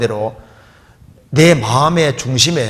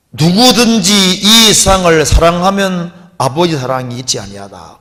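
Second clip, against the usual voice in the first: loud, raised scripture reading; scripture proclaimed; 3 semitones higher, 5 dB louder than usual. Acted. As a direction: proclaim the verse with force. Quotes scripture loudly.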